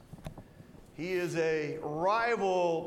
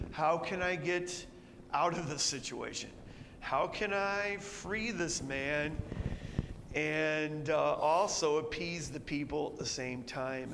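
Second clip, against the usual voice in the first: softer musing to himself; mild worried musing; Pilate pondering; 3 semitones lower, 3 dB quieter than usual. Retold or imitated. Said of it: "he sets about on this".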